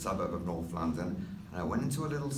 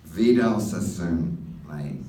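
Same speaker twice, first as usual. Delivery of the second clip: Aussie insistence; 4 semitones lower, 8 dB louder, much slower than usual. Retold or imitated. Australian bloke repeats.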